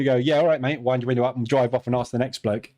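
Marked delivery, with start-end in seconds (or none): 0.1-0.8 imitated West Country local giving directions; lightly hammed West Country accent. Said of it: "You get exactly the same voice".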